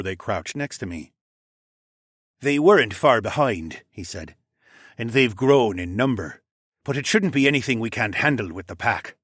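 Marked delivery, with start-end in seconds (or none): 2.4-3.8 lightly voiced orange dragon; volunteer with a touch of character voice; Theo. Plays Theo reporting back. 5.0-9.2 lightly voiced orange dragon; volunteer with a touch of character voice; Theo. Plays Theo reporting back.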